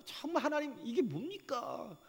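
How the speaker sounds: high, loud, pleading outcry; desperate wail asking God why; anguished complaint to God. Retold or imitated. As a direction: cry out to God in bitter protest. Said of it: "막 이렇게 안 했어요".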